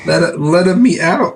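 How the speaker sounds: high, slow cartoon Italian; hammed-up Italian accent; mock Italian accent. Co-host mimicking the doll as an Italian, hammed-up Italian accent. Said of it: "It's like an Italian person".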